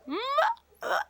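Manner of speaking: failed attempt at a muffled yell; mock gagged grunts; imitated muffled yell. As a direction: try to yell through a gag, barely getting sound out. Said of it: "Paul's waking up and tries to yell".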